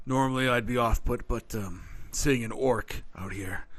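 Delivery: low, soft, steady explanation; a hint of a solemn guardian centaur; lightly voiced centaur. Centaur introduces himself.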